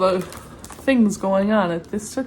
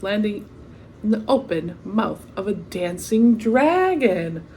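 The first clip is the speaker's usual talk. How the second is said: lively storybook read-aloud; story narration. A narrator's reading. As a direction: read it like a bedtime picture book. Reading the picture book aloud.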